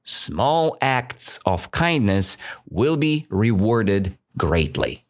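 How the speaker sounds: slow, deliberate moral restated. Shown as a demonstration. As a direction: let the moral sink in slowly. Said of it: "So the moral of the story".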